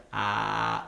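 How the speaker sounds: low croaky "Ah" like a didgeridoo drone. Shown as a demonstration. Teaching the crowd a fake didgeridoo drone, croaky. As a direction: croak "Ah" from the throat. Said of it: "Can everyone do croaky voice?".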